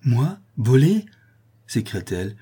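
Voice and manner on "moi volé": slow, high, affronted question; wounded indignation, louder and drawn out; indignant cry. A narrator's reading. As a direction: recoil at the accusation, word by word. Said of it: "colorées d'une généreuse indignation".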